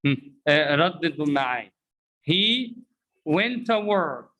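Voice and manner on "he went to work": slow model with "went to" as "wenta"; weak "tuh" for "to"; reduced pronunciation. Shown as a demonstration. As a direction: pause after "He", then blend "went to". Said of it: "Repeat after me".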